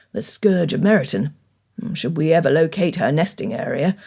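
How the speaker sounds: put-on low, wry older gentleman; lightly voiced amused father; Mister Bennet voice.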